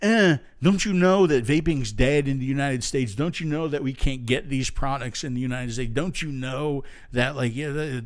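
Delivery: imitating an indignant commenter; mildly hammed-up griping complaint; mock angry. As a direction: parody an offended online critic. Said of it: "they got very angry".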